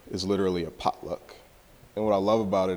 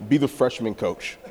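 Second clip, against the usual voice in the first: louder, higher demand; coach's blunt reply; 6 semitones higher, 8 dB louder than usual. Retold or imitated. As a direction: insist like the coach. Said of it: "he's like".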